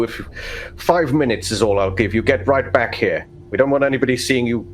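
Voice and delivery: lightly voiced droll overseer; unimpressed, a hint of sarcasm; mild stern father giving orders; dry sarcastic father. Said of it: "He narrows his eyes and goes".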